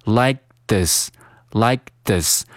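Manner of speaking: "like this" with silent k, tongue straight to th; slow "like this", no k release; unreleased K. Shown as a demonstration. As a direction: hold the k of "like", then "this". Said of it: "舌尖儿直接咬到上下牙齿中间".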